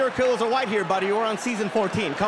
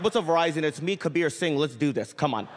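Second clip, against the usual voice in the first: cocky swagger; 6 semitones lower than usual. Retold or imitated. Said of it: "I'm like".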